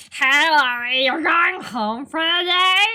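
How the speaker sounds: high, slow sing-song princess voice; cartoon princess. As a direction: drawl it out like a prissy princess. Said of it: "double down on my princess voice".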